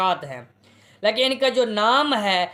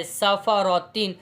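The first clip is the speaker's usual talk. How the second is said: slow careful reading; 3 semitones lower, slower than usual. Shown as a demonstration. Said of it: "मैंने एक लफ्ज़ पढ़ के समझाया है".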